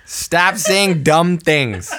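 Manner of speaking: slow words broken by laughter; laughing. Real, not acted. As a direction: laugh through the scolding. Teasing laugh at co-host.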